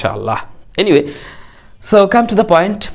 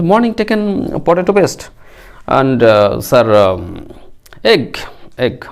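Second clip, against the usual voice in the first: student fumbling for English words, higher and hesitant; halting broken English; 4 semitones higher, slower than usual. Pretend. Teacher playing a weak student, hesitant broken English. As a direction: stumble like a weak student saying any English word he knows. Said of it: "আবোল তাবোল ইংরেজি".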